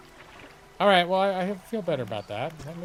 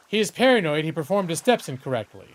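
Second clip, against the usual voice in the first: wife voice; 2 semitones higher than usual. Pretend. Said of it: "that's the wife voice".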